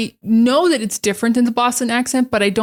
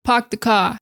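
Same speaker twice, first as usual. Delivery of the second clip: New York accent. Shown as a demonstration. Teacher contrasting New York "park the car" with Boston. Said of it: "It's not up in the ah".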